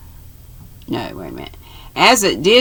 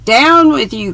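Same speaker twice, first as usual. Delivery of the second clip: higher and louder, a sharp warning; urgent cry; 8 semitones higher, 6 dB louder than usual. A narrator's reading. Julius ordering the girls down during the ambush, urgent shout. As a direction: shout them down as shots fly. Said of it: "cried Julius".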